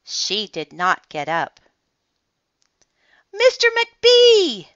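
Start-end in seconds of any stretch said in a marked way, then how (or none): 3.3-4.7 high, slow call down the hall; long, loud librarian's call. Acted. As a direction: call his name from far away. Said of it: "she called after a minute".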